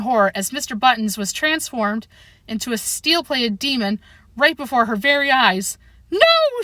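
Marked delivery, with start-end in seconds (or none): 6.1-6.6 high, loud anguished cry; cried out. Acted. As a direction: wail it out in horror. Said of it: "she cried out".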